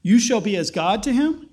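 incredulous question rising on "him"; surprised echo. Real, not acted. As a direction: repeat it in disbelief.

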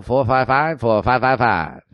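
lightly voiced old-timey radio announcer; a touch of a nineteen forties ad read; 1940s voice. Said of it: "I'm gonna do the voice that I was doing earlier. It's that l-, nineteen forties voice".

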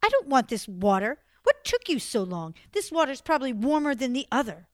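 spoiled sister lashing out at Blanche, angry. Acted. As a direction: kick the bucket over in a huff. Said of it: "kicked the whole bucket out of her hand and said".

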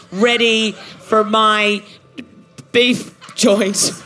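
mad scientist. Acted. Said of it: "laughing maniacally".

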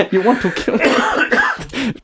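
put-on Thai accent, mock offended; a hammed-up accent turning Chinese. Host plays an offended character in a put-on accent. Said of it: "a very offensive version of Chinese".

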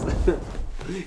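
evil cackle; unhinged evil laugh. Pretend. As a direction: cackle like a villain. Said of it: "I should do some evil laughs".

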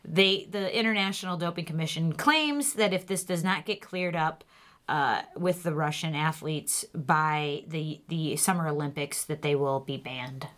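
steady news anchor delivery; news read. Acted. Reads news segment.

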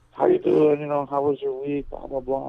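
mock the doctor's small talk; high sing-song doctor; imitating oncologist. Oncologist voiced in story.

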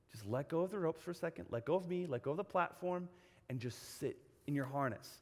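re-enacted soothing guidance, dropping at the end; calm coaxing. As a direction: talk a scared kid down gently. Coaxing panicked kids to let go.

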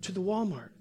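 high, halting, emotional confession; imitated tearful woman. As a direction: break it up as if fighting tears. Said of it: "She starts crying".

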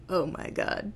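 lightly voiced deadpan impression; a hint of the cartoon voice actor; H. John Benjamin. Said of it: "do my very best H. John Benjamin impression".

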